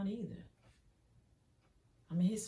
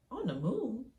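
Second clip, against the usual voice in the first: put-on child's amazed echo; 7 semitones higher than usual. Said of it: "one of y'all was like".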